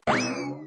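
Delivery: soft, shy little laugh; bashful giggle. Acted. Woman teased about a honeymoon, bashful giggle. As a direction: giggle at a lover's teasing.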